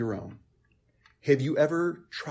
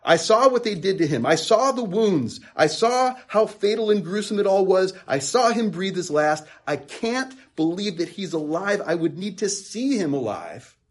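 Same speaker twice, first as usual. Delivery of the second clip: raised, louder, insistent retelling as Thomas; voicing Thomas; 5 semitones higher, 4 dB louder than usual. Thomas to the disciples, insistent and shaken. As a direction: press each I saw as if you witnessed it. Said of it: "It's almost as if he's saying".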